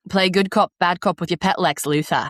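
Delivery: put-on Australian accent. Shown as a demonstration. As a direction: slip into Australian. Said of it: "to do an Australian accent now, I have to say".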